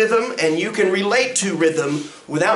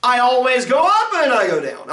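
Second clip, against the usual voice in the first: teacher showing speech melody; animated pitch demo; 6 semitones higher than usual. Shown as a demonstration. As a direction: voice glides up then down. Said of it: "I do not talk monotone".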